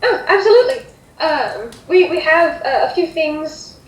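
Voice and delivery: lightly voiced, hesitant hostess; obliging hostess. Hostess checks what guests can eat, hesitant and obliging. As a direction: think through the menu aloud, eager to help. Hostess takes the food order.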